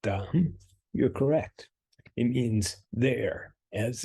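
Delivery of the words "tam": "tam" with an open ah, as in taco; "tam" set apart, ah vowel; Ukrainian tam. Shown as a demonstration. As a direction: say "tam" as a model word. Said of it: "If you're thinking that says".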